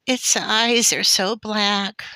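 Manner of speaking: put-on high, slow child's wail; loud, drawn-out tearful plea; sobbing. A narrator's reading. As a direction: wail it like a tearful little girl. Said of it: "Laura sobbed".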